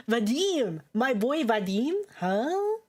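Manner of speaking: calling out to a favourite character, thrilled; excited calling. Real, not acted. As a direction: hail a buddy across the room.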